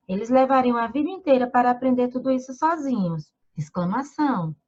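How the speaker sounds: "sozinhos" followed by the word "Exclamação" said aloud; reading punctuation aloud. Shown as a demonstration. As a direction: read it flat, then name the punctuation mark. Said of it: "Não é assim que lemos um texto". (lendo "Exclamação" em voz alta como palavra)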